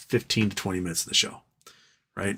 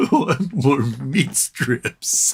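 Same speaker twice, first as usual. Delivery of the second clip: voicing the dog; much slower than usual. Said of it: "She's like".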